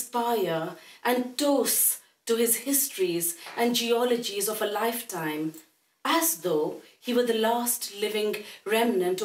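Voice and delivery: measured recital, pausing between phrases; poetry recital. Acted. Poet reading to an audience about her father's dementia, measured recital. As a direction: read it as verse, each image set apart. Reads own poem on dementia.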